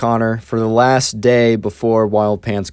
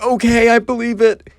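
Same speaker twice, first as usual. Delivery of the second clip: much higher, dopey believing voice; gullible high voice; 12 semitones higher than usual. Retold or imitated. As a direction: play the naive kid who buys it, up high. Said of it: "And I was like".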